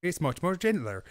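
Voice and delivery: gentle put-on Cornish burr; West Country Cornish accent. Host praising the accent as gentler, Cornish accent. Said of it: "in the West Country Cornish accent".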